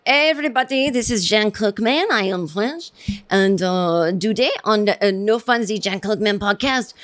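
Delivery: mock French accent, lightly put on, confident; a badly faked French accent on a podcast intro; terrible French accent. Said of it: "doing a terrible accent".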